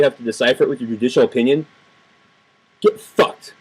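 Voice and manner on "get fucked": hissed whisper; whispered curse. Real, not acted. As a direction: spit it under your breath. Insult to the justices.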